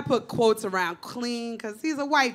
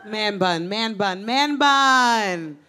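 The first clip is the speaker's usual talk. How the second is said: chanting man bun, the last one louder; mock catcall; 4 dB louder, much slower than usual. Comic heckling a guy with a man bun, mock chant. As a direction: street holler, building.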